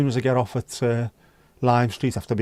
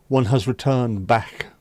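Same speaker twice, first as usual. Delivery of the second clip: posh clipped voice; slower than usual. Shown as a demonstration. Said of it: "Whereas before I'd be quite clipped".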